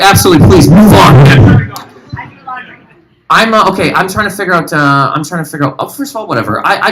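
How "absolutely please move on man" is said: eager agreement. Retold or imitated. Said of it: "that tone was like".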